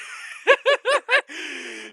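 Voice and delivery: sudden high burst of laughter; loud laugh. Real, not acted. Streamer cracking up at his nickname, high loud laugh. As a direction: crack up loudly at your own joke.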